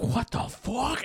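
drawn-out, high-pitched disbelief; acted bewilderment. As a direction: stretch it out in mock astonishment. Acting astonished astronaut on the moon.

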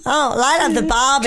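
put-on rough stab at an Australian accent; bad Australian accent. Cohost auditions for Eurovision, shaky attempt at Australian accent. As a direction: have a go at Australian, badly. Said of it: "Okay, Australia".

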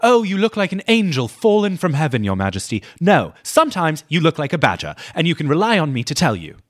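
high, loud, overplayed scolding; hammed-up Lady Sarah. Friend hams up Lady Sarah's reply, a high loud scold. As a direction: deliver it big and theatrical. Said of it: "Lady Sarah".

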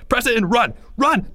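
urgent high-pitched order; yelling. Acted. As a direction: shout it as an escape command. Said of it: "Greg yelled".

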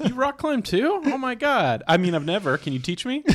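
high, loud mock amazement; hammed-up high-pitched enthusiasm; pretend eager friend. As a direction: gush like a fake fellow hobbyist. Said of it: "become friends with one".

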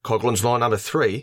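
put-on Aussie announcement; Australian accent. Co-host announces a drinking-game rule, mock Australian accent. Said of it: "in the Australian accent?".

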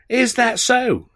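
very high, slow drawn-out question; amazed. Acted. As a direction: stretch it in wonder. Alf's amazed reply.

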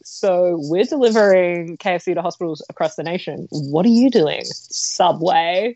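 put-on smug mean girl taunt. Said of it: "I'm hearing it in Mean Girl voice".

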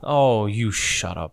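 slow, drawn-out monster retort; Octo. Acted. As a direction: answer the heckler as a disdainful creature. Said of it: "you hear Octo go".

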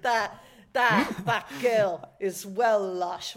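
slow, drawn-out mock gush over a pillow; lightly imitating someone who finds everything lush; mock West Country gush. Friends mocking the word lush, slow drawn-out mock gush. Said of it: "being like".

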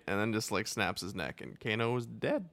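usual speaking voice

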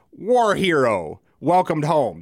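slow, mock news headline delivery; mock headline read. Host mocks Russian news, slow mock headline. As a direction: spell out the headline slowly like a newsreader. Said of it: "That's their headline".

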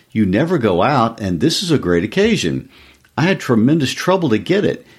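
a hint of a proud, hopeful husband; eager husband. Husband voiced in a story reading.

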